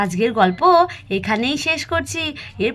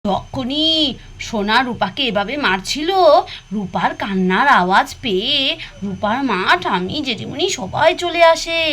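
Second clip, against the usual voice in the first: put-on children's story narration. A narrator's reading. Storyteller tells small children about the fight, sing-song narration. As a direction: draw out each phrase for young listeners.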